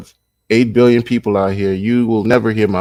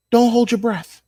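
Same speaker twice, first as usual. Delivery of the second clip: much higher, mocking singsong take on 'Don't hold your breath'; 12 semitones higher than usual. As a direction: squeak it up high like a mocking echo. Mocking the school's refund promise.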